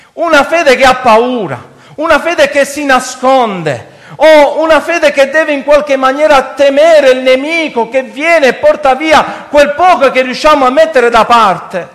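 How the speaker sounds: forceful sermon delivery; preaching. Real, not acted. Preacher rebuking a faith that hides in fear, preaching. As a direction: press each phrase on the congregation.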